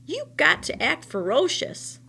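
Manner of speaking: a hint of a bossy old woman; lightly voiced old woman urging him on; coaxing old woman. Old woman coaxing the scarecrow rabbit, lightly voiced.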